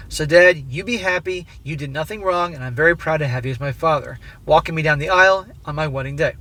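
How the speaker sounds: steady read-aloud voice for a written letter. A narrator's reading. Narrator reading the letter to his wife, measured and even.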